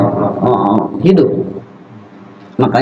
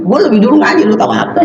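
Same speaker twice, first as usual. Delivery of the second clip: arrogant retort; 6 semitones higher, faster than usual. Retold or imitated. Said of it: "dia merasa lebih dulu ngaji".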